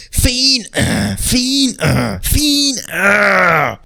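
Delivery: high stammering disbelief; mock shock. Vlogger reliving the ending, high sputtering shock.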